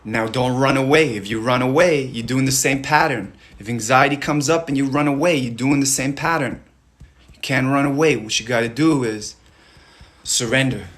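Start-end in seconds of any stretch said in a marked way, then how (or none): 0.1-8.1 louder, insistent push; don't let them escape, press hard; firm coach urging. Real, not acted. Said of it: "firm coaching push".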